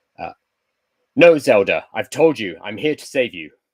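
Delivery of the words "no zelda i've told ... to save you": very loud, furious, angry shout. Voicing a game character's dialogue to Zelda, angry Link line. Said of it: "I'm going to say it in an angry way".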